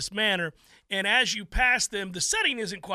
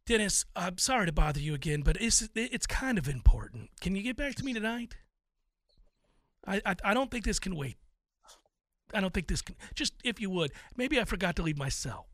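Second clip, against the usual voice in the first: anxious voicemail; 2 semitones lower, 5 dB quieter than usual. Retold or imitated.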